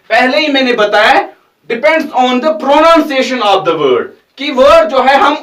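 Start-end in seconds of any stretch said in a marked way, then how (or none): 1.7-4.1 slow teaching read. Shown as a demonstration. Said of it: "repeats rule slowly".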